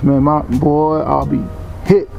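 ordinary talk

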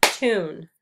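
"Tune" as one firm beat; one emphatic beat on "Tune"; clapped syllable. Shown as a demonstration. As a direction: clap out "Tune" as a single syllable. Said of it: "Let's clap the syllables in tune".

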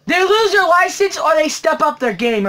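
high, heated demand; angry ultimatum. Real, not acted. Collector demands the store improve its shipping, high and angry. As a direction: lay down the ultimatum forcefully.

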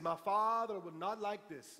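lightly imitated Jamaican accent, slowed down; slow quote with a touch of Jamaican accent. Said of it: "in that Jamaican accent".

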